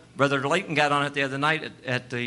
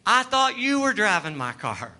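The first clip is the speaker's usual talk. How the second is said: slow, lightly voiced scolding wife; a hint of an exasperated wife, slowed; mock nagging wife; 8 semitones higher, slower than usual. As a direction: tease the wife's backseat complaint, drawn out. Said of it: "she goes".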